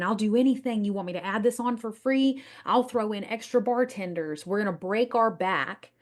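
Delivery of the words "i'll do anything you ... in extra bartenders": lightly acted eager people-pleasing; mildly overeager mock pleading; eager pandering. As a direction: pitch it up a little, offering anything to win them. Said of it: "We're gonna be in their inbox saying".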